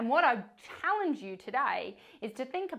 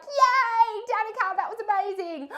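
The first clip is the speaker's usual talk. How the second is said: mock cheer; 12 semitones higher, 7 dB louder than usual. Imagined classmates cheering.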